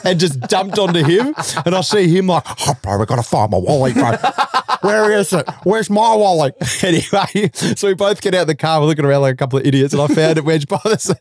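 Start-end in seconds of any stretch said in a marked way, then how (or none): 2.7-6.5 mock panic, climbing higher; panicking friend. Friend now hunting his own wallet, mock panicked. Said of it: "all the panic and anxiety".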